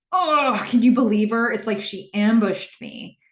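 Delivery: mock exasperation, opening on a high "oh"; exasperated outburst. Cam vents to Joe about being ambushed, exasperated. Acts out Cam's outraged venting.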